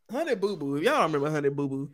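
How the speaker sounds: ordinary talk, nothing marked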